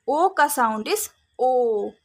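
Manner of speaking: slow teaching emphasis. Shown as a demonstration. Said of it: "long sound".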